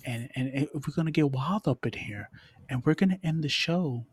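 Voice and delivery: smooth, measured creepy-seductive voice. Pretend. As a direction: lightly put on a creepy, seductive voice. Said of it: "I'm using this creepy voice".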